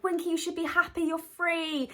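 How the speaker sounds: Dobby voice. Retold or imitated. Dobby cheering up Winky, high eager elf voice. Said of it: "And he's like".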